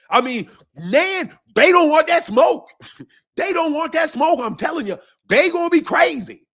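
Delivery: lightly mocking pundit hyping the fight; excited commentator shout, hammed up; Tim Bradley impression. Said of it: "this is my Tim Bradley impersonation".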